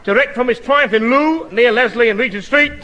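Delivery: lightly posh compere voice; cultured announcer. Acted. Asked by the showman, he announces the singer in a cultured voice. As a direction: announce the act with grand manners. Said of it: "talk this bit, what I read here".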